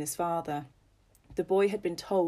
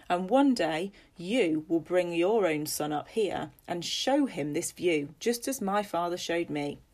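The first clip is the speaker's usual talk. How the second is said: a lightly voiced proud father, a bit louder; 3 dB louder than usual. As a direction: speak like a proud landowner showing his son the land. Father speaks to son on hill.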